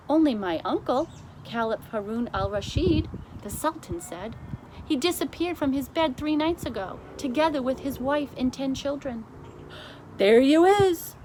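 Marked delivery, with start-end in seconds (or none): 0.1-3.1 higher, a bit louder Sultan; offhand reply, voiced up. 4.9-9.3 high, lively Sultan voice. Acted. 10.2-11.2 high, loud giant's cry; big giant exclaiming at the phone call; BFG crying out. Acted. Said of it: "cried the B F G".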